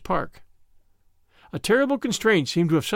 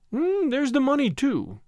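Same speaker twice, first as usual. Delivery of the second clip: high drawn-out hum, dropping at the end; thoughtful; 8 semitones higher than usual. A narrator's reading. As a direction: muse aloud, as if just remembering. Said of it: "she observed thoughtfully".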